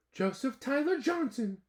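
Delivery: high, loud full-name call. Acted. Mother calling her son from the front door, stern call. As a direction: call him in like a cross mom.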